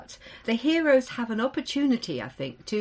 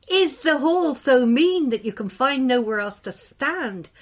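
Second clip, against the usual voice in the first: mocking; 3 semitones higher, 5 dB louder, slower than usual. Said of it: "mocked Dothluck Beetletongue".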